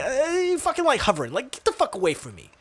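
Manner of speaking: mildly exasperated brush-off of a hovering salesman; annoyed. Retold or imitated. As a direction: grumble it as if fed up. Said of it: "but just annoyed".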